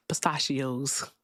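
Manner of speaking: PISTACHIOS drawn out slowly; slow, mocking PISTACHIOS; mimicked pronunciation. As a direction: mimic an odd pistachios, stretched.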